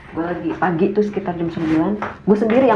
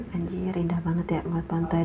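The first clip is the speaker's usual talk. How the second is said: dreamy murmur; 4 semitones lower, 10 dB quieter than usual. Retold or imitated. Daydreaming on balcony.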